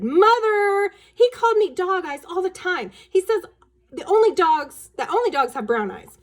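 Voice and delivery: high, loud tattling wail; whiny complaint. Acted. Daughter complains to mother about brother, high and whiny. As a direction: whine to mom about your brother. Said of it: "Wendy said".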